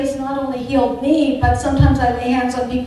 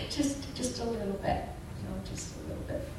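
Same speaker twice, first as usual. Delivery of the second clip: much softer, gentle pleading; coaxing softly; 15 dB quieter, faster than usual. Retold or imitated. To the angry friend Sharon, soft coaxing. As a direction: coax her gently, nearly hushed.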